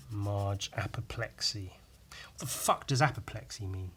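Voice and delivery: whispered aside, low; muttering to himself under breath. Real, not acted. Drawing Marge and wondering about a word, whisper.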